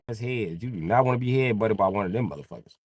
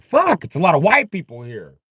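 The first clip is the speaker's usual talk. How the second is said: mock white guy; 8 semitones higher than usual.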